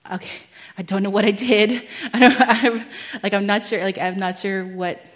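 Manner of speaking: loud, laughing bewilderment; flustered retelling. Retold or imitated. Speaker replaying her confusion at a stranger's tears, flustered. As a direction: act out being thrown, half laughing. Baffled when she starts crying.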